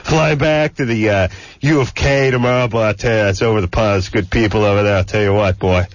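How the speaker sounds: lightly voiced country radio jock, pumping up the guest; a hint of a hokey hype-man hosting; hammed-up good ol' boy DJ. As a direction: oversell the guest like a small-town DJ, calling everyone boy. Hyped radio host bit.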